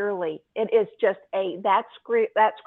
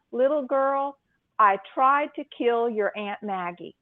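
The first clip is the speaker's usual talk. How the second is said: calmly; slower than usual. Retold or imitated. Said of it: "he very calmly tells her".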